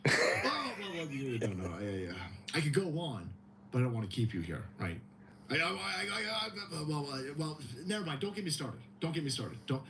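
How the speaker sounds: put-on mumbling old man stammer; stammering Biden impression. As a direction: fumble the words like a lost old man. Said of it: "He goes".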